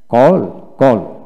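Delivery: "কল" slowly, the American way. Shown as a demonstration. Teacher drilling learners on call, American pronunciation of "কল". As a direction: say "কল" with an open, drawn-out aw vowel. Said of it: "কল হচ্ছে American উচ্চারণ".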